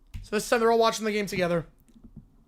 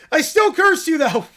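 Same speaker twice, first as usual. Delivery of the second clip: stubborn bratty curse; 3 semitones higher, 4 dB louder than usual. Acted. Caillou corrects himself.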